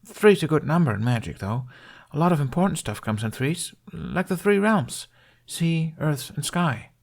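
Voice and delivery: put-on a shy boy proudly listing the elements; young Jamie. Narrator voices young Jamie.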